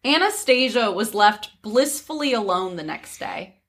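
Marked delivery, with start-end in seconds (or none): 0.1-0.1 mock posh.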